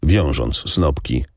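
plain reading voice

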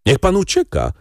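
high-pitched cry of pity; urgent call. A narrator's reading. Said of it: "zawołała panna Darmilly". (wysokie, naglące wołanie)

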